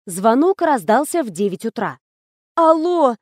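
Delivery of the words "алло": groaned out, pitch higher; a sick person's groan down the phone; moaning. Acted. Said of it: "простонала я". (со стоном)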